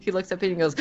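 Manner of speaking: normal talking voice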